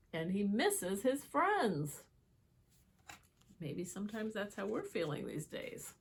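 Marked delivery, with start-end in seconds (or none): 0.1-2.0 put-on reading a picture book to children; lively read-aloud for little listeners; storybook voice; story narration. A narrator's reading.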